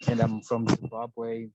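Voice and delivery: muffled behind a face mask; talking through a cloth mask. Real, not acted. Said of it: "please excuse my mask".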